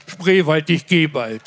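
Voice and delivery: ordinary delivery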